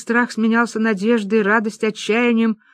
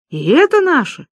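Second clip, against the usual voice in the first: amazed; 8 semitones higher, 5 dB louder than usual. Acted. Women amazed at winnings.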